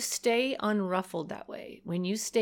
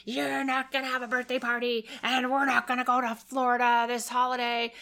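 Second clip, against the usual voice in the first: imitating angry threats; 5 semitones higher than usual. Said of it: "you're flinging out consequences".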